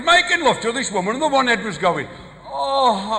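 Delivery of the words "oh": higher, drawn-out "oh"; hammed-up passionate sigh; mock moan of pleasure. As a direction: moan it like a lover. Imitates woman's head during lovemaking.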